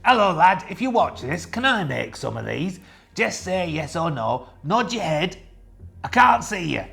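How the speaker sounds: cheery put-on voice asking the designer a favour; put-on character voice. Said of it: "I slipped out the voice then".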